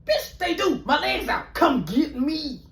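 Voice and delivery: high, whiny and near tears; panicked high whine. Retold or imitated. Calling his friend to come get him, high and panicked. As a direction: beg her to hurry.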